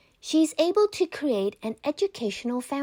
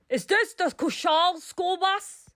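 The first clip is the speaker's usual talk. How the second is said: high, sharp call to the driver; shout; 8 semitones higher than usual. A narrator's reading. Gunman calls to the bus driver, high demanding shout. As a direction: bark the question up the bus. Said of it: "A man shouts to the driver".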